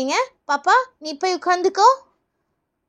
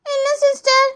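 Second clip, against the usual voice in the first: high schoolkid reply; child pupil; 5 semitones higher than usual. Acted. Pupil telling nurse it doesn't hurt, child voice. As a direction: answer in a kid's voice.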